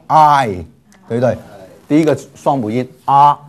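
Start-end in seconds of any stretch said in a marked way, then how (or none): 0.1-0.6 "I" as "a" gliding quickly into "i"; two vowels merged. Shown as a demonstration. Teacher demonstrating the first diphthong, "I" as one glide. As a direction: blend both vowels into one "I". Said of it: "读得很快，变成I".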